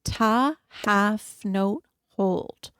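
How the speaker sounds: even count, long held note; counting beats. Shown as a demonstration. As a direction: hold the last word out. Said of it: "So we're gonna go ta".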